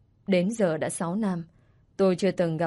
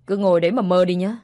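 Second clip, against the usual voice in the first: mocking taunt; 6 dB louder than usual. Stepmother mocks child.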